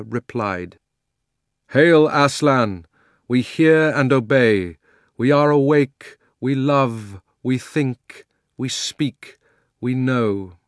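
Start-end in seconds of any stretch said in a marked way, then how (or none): 1.7-10.6 loud, higher chorus of creatures answering; chorus of beasts. Acted. The creatures hailing Aslan, loud and eager. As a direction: hail the lion like a crowd of beasts. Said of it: "in their different voices, low or high or thick or clear".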